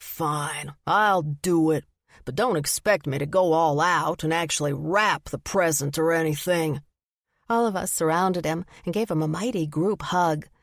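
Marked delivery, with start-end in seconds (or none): 0.0-6.8 reluctant, sulky grumble; grumpy protest. Acted. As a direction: grumble it out, grudgingly. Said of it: "his protests grew too loud".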